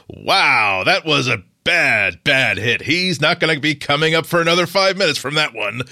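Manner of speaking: lightly voiced TV football color commentator. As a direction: call the hit like a safe studio pundit, words drawn out. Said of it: "he is like that color commentator".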